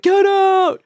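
high, loud retold outburst; mock yell. Todd reacting as everyone leaves, mock yell. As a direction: yell it in playful imitation. Acting angry character's yell.

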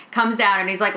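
ordinary delivery

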